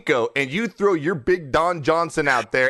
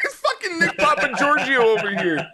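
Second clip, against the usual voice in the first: laughing; 10 semitones higher than usual. Real, not acted. Joking nickname, laughing.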